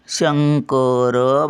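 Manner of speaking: "शंकर," slow, "शं" held up, "कर" released syllable by syllable; शं उचलून, कर सोडत. Shown as a demonstration. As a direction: lift shang, then let ko-ro go in "शंकर,". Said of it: "शं उचलून धरलं". ("शंकर," शं धरून, कर हळूहळू सोडा)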